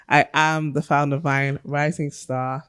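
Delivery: measured, mock-solemn thank-you speech; Oscar acceptance speech. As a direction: address the audience like an award winner. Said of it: "Not you doing your Oscar".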